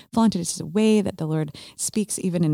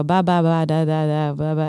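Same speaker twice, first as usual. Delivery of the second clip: mock babbling. Shown as a demonstration. Telling a listener how first tongues sound, light babble. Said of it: "you're just gonna go".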